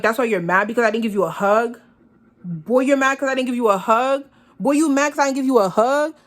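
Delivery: building incredulous retort. Retold or imitated. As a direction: push the disbelief up each time.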